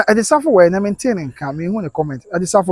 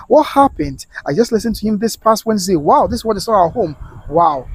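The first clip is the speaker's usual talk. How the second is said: higher-pitched voicing of a stunned comment; shocked disbelief; 3 semitones higher than usual. Host reads a viewer's shock at the news, stunned. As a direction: read it out as if stunned.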